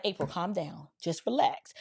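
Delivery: low, soft reassurance; retold calming down. Companion telling April in the back seat to relax, calming. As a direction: quietly settle a panicking passenger. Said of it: "he was calm".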